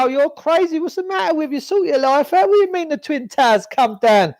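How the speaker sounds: high, sneering mock voice of the sceptics; mocking the doubters. Mimicking people who dismiss his theories, high sarcastic voice. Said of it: "they go".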